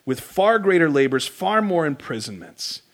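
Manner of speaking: proclaimed loud on "far greater labors"; quoting Paul with a loud, proud burst; loud quote. Retold or imitated. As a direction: punch the first "far" out boldly. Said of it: "he says".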